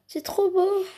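high, breathless whispered awe; excited whisper. Pretend. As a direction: whisper it in delight. Admiring the perfume.

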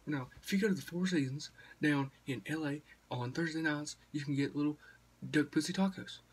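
lightly imitated stand-up comedian; Ron White. Retelling a comedy special to viewers, comedian impression. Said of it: "and Ron White, this is a new comedy special, and he goes".

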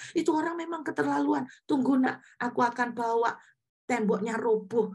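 playful protective indignation; imagined indignant protector. Pretend. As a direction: pretend to take a wronged child's side. Imagined God indignant on her behalf.

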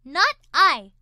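loud lazy refusal; a lightly voiced bored cat; snooty bored cat. A narrator's reading. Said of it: "said the cat".

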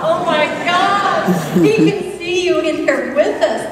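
amazed. Acted. The king sees the angel.

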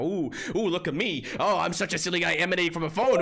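lightly hammed-up silly-guy voice; mock the phone viewers in a quick sing-song. Mocking viewers on mobile phones.

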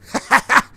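loud, high laugh; sudden high chuckling. Real, not acted. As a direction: burst out laughing. Laughing over burgers.

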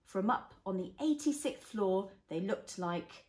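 gentle storybook reading; reading to a toddler. Acted. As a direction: read it like a bedtime story.

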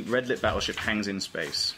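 usual speaking voice

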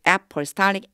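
apostolic said quickly as "epstalik" with the stress late in the word; pronouncing apostolic. Shown as a demonstration. Teacher repeats apostolic for the class, pronunciation drill. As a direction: repeat apostolic, clipping the first vowel. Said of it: "apostolic 이렇게 발음돼요".

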